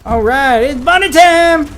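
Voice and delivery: excited character voice. Acted. Playing as Bunny, hyped.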